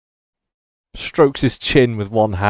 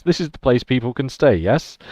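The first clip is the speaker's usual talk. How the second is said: put-on German accent; 3 semitones higher than usual. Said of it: "in a Germanic accent".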